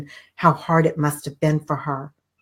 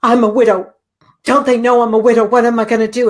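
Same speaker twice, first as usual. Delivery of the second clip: a touch of rising, hurried panic; panicked mother; 3 semitones higher, 4 dB louder, faster than usual. Retold or imitated. A widowed mother fretting over the prescription cost, mock panic. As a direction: imitate her spiraling alarm lightly. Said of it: "She panicked".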